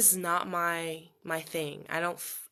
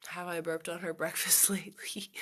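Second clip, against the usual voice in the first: breathy whisper with a laugh; 3 dB quieter than usual. Real, not acted. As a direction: whisper it as a secret. Whispered read-out question.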